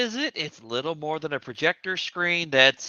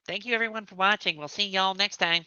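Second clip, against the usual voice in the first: higher voice; 5 semitones higher than usual. Acted. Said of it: "trying to make your voice higher".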